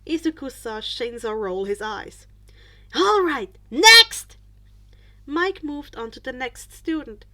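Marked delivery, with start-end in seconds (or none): 2.9-4.4 brisk call. Acted. Teacher moves on loudly.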